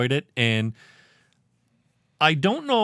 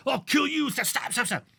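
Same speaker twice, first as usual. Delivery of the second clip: mock Spock; 10 semitones higher than usual. Imitating Spock in pitch.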